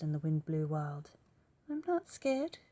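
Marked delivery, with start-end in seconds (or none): 1.7-2.6 put-on high, loud plucky child voice; brave little child. Gruffalo's child boasting she is not scared, high and loud. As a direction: puff up like a brave little kid. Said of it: "said the Gruffalo's child".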